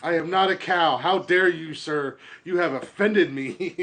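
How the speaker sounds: lightly voiced indignant cow; prissy, huffy offense; offended snowflake.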